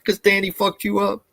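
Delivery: laughing while talking; words broken by laughter. Real, not acted. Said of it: "I'm just laughing".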